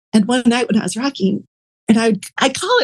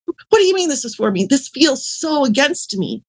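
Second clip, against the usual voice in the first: higher, protesting question; indignant disbelief; 5 semitones higher than usual. Retold or imitated. Woman answering the voice in her head, high and incredulous. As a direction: push back in baffled protest. Arguing back with inner voice.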